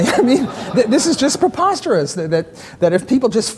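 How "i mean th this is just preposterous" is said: laughing while he talks, pitch much higher; real amused laughter breaking into the words. Real, not acted. Lecturer laughing at the theory he calls preposterous.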